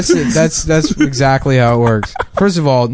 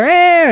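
mock yelp; 3 dB louder than usual. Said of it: "immediately I hear".

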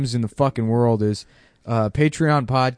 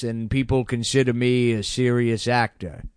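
slow, deadpan drawl; lightly voiced intense actor; Michael Shannon impression; slower than usual. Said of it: "I was doing Michael Shannon".

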